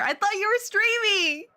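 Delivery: high, giggling protest; laughing protest. Real, not acted. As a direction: laugh it out, flustered.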